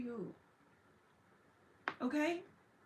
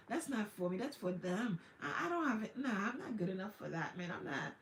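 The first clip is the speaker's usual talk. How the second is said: defeated self-talk; 4 semitones lower, 4 dB quieter than usual. Acted.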